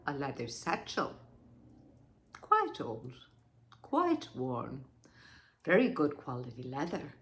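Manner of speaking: low, soft, measured fragments; ominous restraint. Acted. Wife describes the satchel she found, grimly restrained. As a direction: hold it down, piece by piece.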